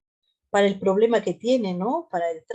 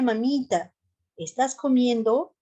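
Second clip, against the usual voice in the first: a touch higher, affectionate tuteo; warm village address; 3 semitones higher than usual. Shown as a demonstration. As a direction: ask tenderly, like to a mother. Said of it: "Entonces yo podría decirle".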